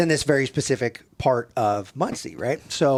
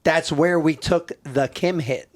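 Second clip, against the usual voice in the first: \"That's where we took the Kim hit\" said slowly through laughter; laughing repeat; 2 semitones higher, slower than usual. Retold or imitated. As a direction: drag it out, cracking up. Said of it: "And I'm like".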